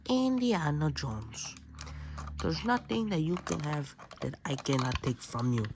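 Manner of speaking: slow, lightly voiced villain threat; menacing villain. Villain taunting Indiana Jones, a lightly voiced slow threat. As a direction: play the villain gloating over the hero.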